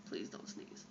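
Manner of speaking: whispered, desperate plea; barely whisper, begging yourself. Real, not acted. Holding back a sneeze.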